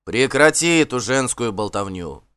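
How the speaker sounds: curt, irritated cut-off; sharp interruption. Acted. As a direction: snap him short, out of patience. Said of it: "резко прервал его Асвальд". (резко, с раздражением)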